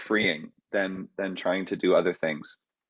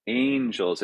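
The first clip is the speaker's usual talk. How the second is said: angels, first syllable strong, second weak; stress on first syllable. Shown as a demonstration. Composer showing word stress on angels. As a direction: lean on AN in angels, let -gels fall away. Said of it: "like I talk about the word angels".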